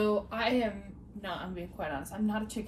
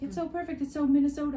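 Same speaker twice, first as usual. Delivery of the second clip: higher-pitched imitation of a Minnesota accent; 6 semitones higher, 6 dB louder, faster than usual. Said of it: "And she said it that way".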